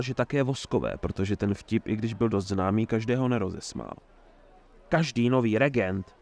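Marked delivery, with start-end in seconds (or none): 4.9-6.2 indignant. Acted. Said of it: "pokračoval Herbold pobouřeně".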